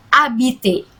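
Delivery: habiter with no H sound, said abite; silent h. Shown as a demonstration. Teacher modelling habiter without the h for students. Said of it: "bukan habiter, tapi habiter".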